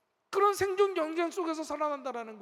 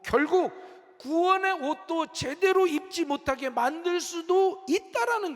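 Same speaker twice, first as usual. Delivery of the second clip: emphatic preaching; 6 semitones higher, 6 dB louder than usual. Real, not acted. Preacher drives the warning home.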